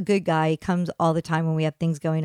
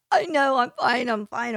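retold tearful protest; 4 semitones higher than usual. Bawling customer telling the plumber she is fine, tearful. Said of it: "I couldn't stop crying".

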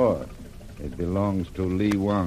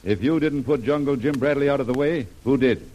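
fast, louder pressing demand; hard accusation; 3 semitones higher, 4 dB louder, faster than usual. Acted. Brent pressing Lil for an answer, fast and louder. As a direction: push her, quick and forceful.

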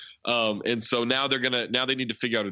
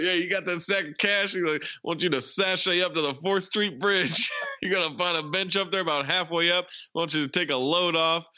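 a hammed-up, higher creepy villain giving orders; mock villain voice; 5 semitones higher than usual. Villain mocking the cops' instructions, pitched up and hammy. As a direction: play the gleeful kidnapper, pitched up.

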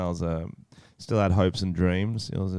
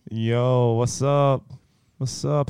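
American accent attempt; 2 semitones higher, much slower than usual. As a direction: try an American accent, pitched up. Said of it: "am I talking to a famous rapper right now?".

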